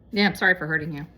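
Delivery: a quick, offhand "sorry for hurting you"; a dismissive sorry with nothing owned; blanket apology. Shown as a demonstration. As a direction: toss off the apology to get it over with. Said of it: "Is quite different than".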